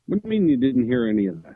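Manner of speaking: breaking up like a bad video call; glitchy choppy connection; robotic voice. Real, not acted. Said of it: "you sound robotic".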